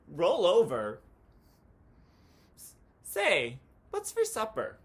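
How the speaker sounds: loud goofy cheer, flop and roll; shouting his own odd cheer; Tacky's wild cheer. Acted. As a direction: belt out a silly cheer.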